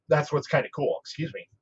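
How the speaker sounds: through heartburn, clearing throat. Real, not acted. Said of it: "I'm having a major heartburn".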